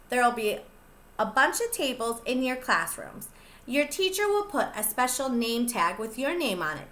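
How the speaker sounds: plain reading voice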